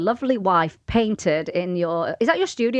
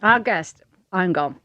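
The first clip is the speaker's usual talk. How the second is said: mouth full; 2 semitones lower than usual. Real, not acted. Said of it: "say it now while your mouth is full".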